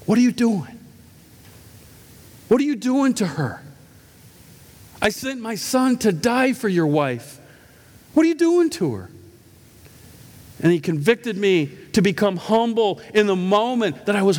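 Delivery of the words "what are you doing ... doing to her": God's rebuke. Retold or imitated. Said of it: "He goes".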